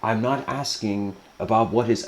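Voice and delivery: a lightly acted serene elder; graceful. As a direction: address him with patient courtesy. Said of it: "endlessly graceful".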